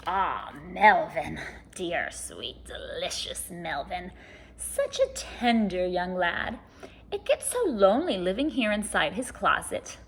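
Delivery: a hint of a hungry closet monster, purring over dinner; lightly voiced monster.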